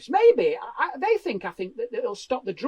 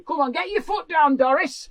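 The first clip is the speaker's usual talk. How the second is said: raised, high-pitched hectoring call; megaphone warden; 6 semitones higher, 4 dB louder than usual. Acted. Covid warden tailgating a mobility scooter, megaphone call. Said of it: "with a megaphone".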